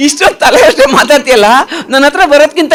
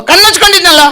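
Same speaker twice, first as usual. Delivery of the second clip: high puppet voice; cheeky puppet; 5 semitones higher than usual. Acted. Puppet explains itself to the host, cheeky high puppet voice. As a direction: retort as a cocky puppet.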